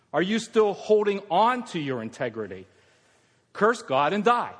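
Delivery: mock her taunting; Job's wife. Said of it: "His wife said to him".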